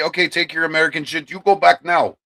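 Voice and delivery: high-pitched, badly faked French accent. Streamer mocking Canadians in his chat, bad French accent. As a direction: put on a hammy, terrible French accent. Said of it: "that's the worst French accent ever".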